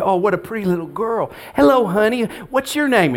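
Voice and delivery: put-on first-time guest cooing at pastor's five-year-old daughter, high sweet voice; cooing at a child. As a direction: coo it like a stranger greeting a toddler. Visitor cooing at little girl.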